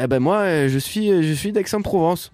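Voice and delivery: hint of a southern French accent. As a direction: imitate a friend's mild southern French lilt. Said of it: "Avec un accent du Sud".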